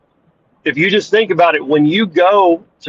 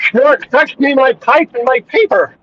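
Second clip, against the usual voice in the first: toothless; 9 semitones higher than usual. Acted.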